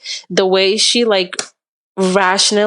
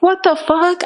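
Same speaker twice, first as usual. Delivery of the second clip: retold livid outburst; 9 semitones higher than usual. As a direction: re-enact losing it at a friend. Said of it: "I was livid".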